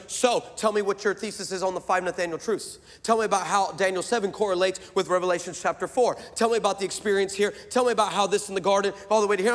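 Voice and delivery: rapid-fire mock interrogation. Socially inept theologian grilling the preacher at Starbucks, rapid interrogation. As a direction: fire off questions without pausing for breath. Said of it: "let's skip the interrogation".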